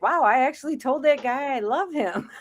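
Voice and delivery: high, laughing at her own words; laughing disbelief. Retold or imitated. Recalling telling a stranger she loved him: high, laughing disbelief. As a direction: giggle through the realization.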